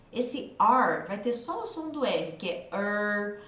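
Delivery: slow, drawn out "er" with the tongue curled back; r sound demo. Shown as a demonstration. Teacher showing students the r sound, slowly drawn out. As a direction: hold the "er" long, tongue rolled up to the roof of the mouth. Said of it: "A língua dobra lá no céu da boca".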